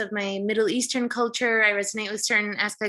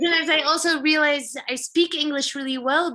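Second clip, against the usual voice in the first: laughing while talking; 5 semitones higher than usual. Real, not acted. Laughing at her own English.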